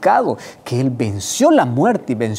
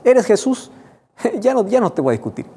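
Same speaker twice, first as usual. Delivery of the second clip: sorpresa exagerada; 9 semitones higher than usual. Retold or imitated. Saulo rindiéndose, con risa.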